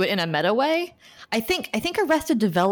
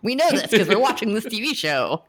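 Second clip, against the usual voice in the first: raised, laughing mock outburst; mock exasperated delight; 5 semitones higher, 3 dB louder than usual. TV viewer answering Buffy's title drop, mock excited. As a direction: talk back to the screen in higher pitch.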